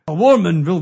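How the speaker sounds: loud mock pirate; a hint of pirate growl. Shown as a demonstration. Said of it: "no, that's a pirate".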